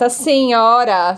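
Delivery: drawn-out, mock-polite address; slow, ironic show of respect. Shown as a demonstration. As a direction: stretch it out with polite sarcasm. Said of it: "não tá falando senhora irônico".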